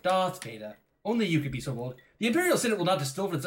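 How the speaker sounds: imitated put-on English accent; mock-formal English accent; Carrie Fisher. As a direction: play a film heroine attempting an English accent. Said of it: "Carrie Fisher was trying to be English".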